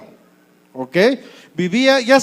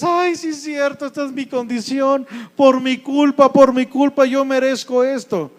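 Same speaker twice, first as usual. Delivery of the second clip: higher-pitched mock woeful voice; self-pitying lament; 4 semitones higher than usual. Defeated believer accepting poverty as deserved, mock lamenting. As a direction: bemoan your lot, blaming yourself.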